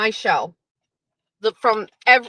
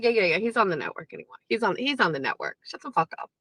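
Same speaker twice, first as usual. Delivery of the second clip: much softer, dismissive mock Kirk; offhand shutdown; 5 semitones lower, 9 dB quieter, much faster than usual. Kirk quietly shutting Menners down, dismissive. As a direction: flick it away quietly. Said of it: "Kirk just comes out".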